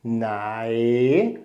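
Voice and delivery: "Nai" rising toward the end; teacher models "Nai" on the rising tone; rising tone Thai. Shown as a demonstration. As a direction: lift "Nai" upward in pitch as it ends. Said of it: "Nai im steigenden Ton".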